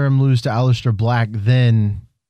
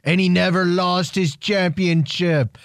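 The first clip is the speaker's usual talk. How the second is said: a slow, higher, badly faked Irish accent; hammed-up failed Irish accent; 5 semitones higher, slower than usual. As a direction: try an Irish brogue and miss. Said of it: "That was horrible accent".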